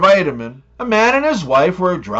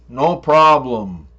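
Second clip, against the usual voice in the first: shrugging it off; 5 semitones lower, slower than usual. Retold or imitated. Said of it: "But Canadians be like".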